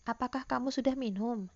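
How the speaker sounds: "Apakah kamu sudah minum" rising at the end; rising intonation. Shown as a demonstration. Teacher repeats the yes-or-no example for pupils, rising intonation. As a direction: lift "minum" upward as a yes-or-no question. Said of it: "itu intonasi naik ya".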